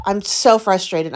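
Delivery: ordinary talk, nothing marked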